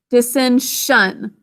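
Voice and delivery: dissension said slowly and evenly; slow syllable model. Shown as a demonstration. Teacher sounding out the word for spelling practice. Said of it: "And then".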